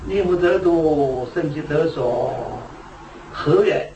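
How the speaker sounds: 一字一顿地慢慢念出古语; 像诵读经文那样放慢; 缓慢引述祖师语. Retold or imitated. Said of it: "莲池大师的意思说". (放慢语速庄重引述)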